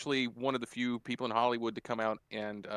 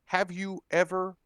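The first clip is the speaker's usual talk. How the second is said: slow stern question; 4 semitones higher than usual. Retold or imitated. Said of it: "And then says".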